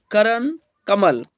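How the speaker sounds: slow "करण, कमल", stressing क and म; teacher's slow stress demo of "करण, कमल"; stressed syllables. Shown as a demonstration. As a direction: say "करण, कमल" slowly, leaning on क and म. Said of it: "इसमें क और म पर क्या दिया गया है".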